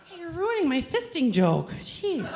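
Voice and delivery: mock annoyed. Real, not acted. Scolding heckler, higher.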